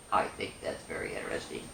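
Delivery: hushed, fast whisper; low hushed whisper, a quick aside. Real, not acted. Aside while reading to children.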